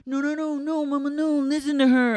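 high, whiny put-on pleading; Schwartz. Schwartz telling Katie to hear Raquel, high mock plea. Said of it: "Schwartz was like".

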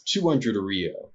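slow, deliberate price drop; slow cold price. Acted. Nobleman telling the villager the cigars' price, slow and cold. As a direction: let each word land, unmoved.

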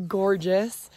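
normal talking voice

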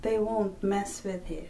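hushed, knowing whisper. Real, not acted. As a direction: whisper it like a secret. Warning about her surname.

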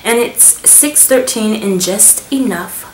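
slow, loud mock announcement of the shade name; playful slow shade announcement; silly announcer voice. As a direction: ham up the name like a presenter. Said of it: "I don't know why I felt like doing that".

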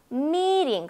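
미팅 as a long MEE and a weak tapped "ring"; stress on first syllable. Shown as a demonstration. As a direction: hold the first syllable of 미팅, flick the second. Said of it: "앞부분이 강하단 말이에요". (미팅의 앞부분을 길고 강하게)

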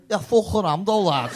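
imitating a Scouse audience member; mock Scouse. Comic retelling of audience member's retort, mock Scouse. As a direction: put on a Scouse accent for the retort. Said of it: "He didn't have a Scouse accent".

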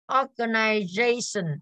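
slow "Organization" with the beat on "za"; stress on fourth syllable. Shown as a demonstration. Teacher going through stress answers, slow "Organization" stressed on "za". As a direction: draw out "Organization", weighting the "za". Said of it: "âm số bốn đúng không ạ?".

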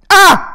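sudden loud fake scream to scare viewers; bursting out with a mock scream; jump-scare yell. A prank scream at viewers who turned the volume up. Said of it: "No se crean, no se crean".

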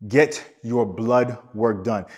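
slow, word by word, Get stressed; a deliberate slowed-down warning; slow emphatic repeat. Shown as a demonstration. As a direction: spell it out slowly so it sinks in. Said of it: "So I'm going to emphasize this emphatically".

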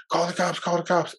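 high-pitched imitation of a panicking sister; freaking out. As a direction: retell her panic, voice jumping up high. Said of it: "she starts freaking out".

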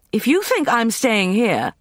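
high, loud, slow protest; indignant. A narrator's reading. Leah's indignant outcry.

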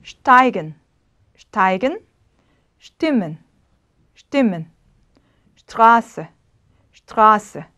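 steigen, stimmen, Straße begun with "sht". Shown as a demonstration. Teacher models initial ST for students, sht. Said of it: "슈트".

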